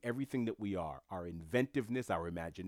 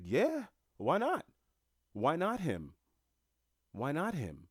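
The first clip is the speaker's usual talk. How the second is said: much higher and louder, slow, defiant "why not?"; emphatic insistence; 7 semitones higher, 3 dB louder, slower than usual. Retold or imitated. Retelling how he answered his friends, much higher and louder, defiant. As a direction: push back hard, stretching every "why not". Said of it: "I was like".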